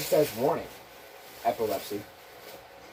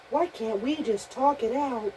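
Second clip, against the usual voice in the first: higher, pleading toy voice; 5 semitones higher than usual. Pretend. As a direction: beg like a frightened toy. Voicing Toy Story figure.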